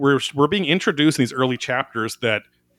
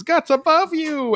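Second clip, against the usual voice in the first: high, slow call of warning; 4 dB louder, slower than usual. Retold or imitated.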